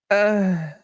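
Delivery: high, feeble "uh"; mock whimper. Reacting to a letdown of a game, mock whimper. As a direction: imitate an underwhelmed little whimper. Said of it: "like, a whimper".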